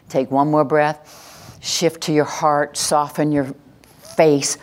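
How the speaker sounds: guided calm. Shown as a demonstration. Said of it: "guiding the breath".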